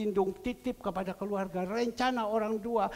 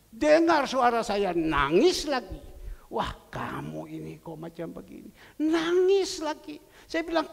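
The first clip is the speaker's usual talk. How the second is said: high, raised exhorting voice; raised-pitch urging, stretching key words; impassioned preaching; 5 semitones higher, 5 dB louder than usual. Acted. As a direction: retell the scolding pep talk with preacher's force. Preacher retells his exhortation.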